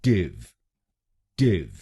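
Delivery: टिव said alone, a short ʈɪv; final syllable isolated as टिव; syllable demo. Shown as a demonstration. Teacher drills the last syllable. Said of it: "टीआईवीई हम बोलेंगे".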